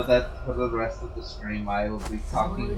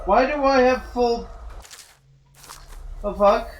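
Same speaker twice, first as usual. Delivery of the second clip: surprised; 9 semitones higher, 4 dB louder than usual. Real, not acted. Surprised at empty inventory.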